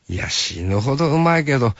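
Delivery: Hakata dialect, falling on うまいけど; easy Hakata answer, tune dropping; 博多弁で落ち着いて返す; Hakata dialect reply. Retold or imitated. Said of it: "博多弁になる".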